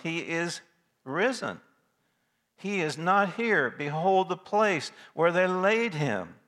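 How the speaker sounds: high, slow, solemn proclamation; glorious announcement. Retold or imitated. Preacher voicing the angel's announcement to the women, solemn high proclamation. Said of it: "the angel makes known the glorious announcement".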